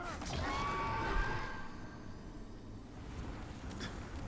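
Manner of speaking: high breathless laugh bursting out; shrieking unvoiced laugh; burst of laughter. Real, not acted. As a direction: laugh in disbelief at the screen. Reacts to sudden death in game.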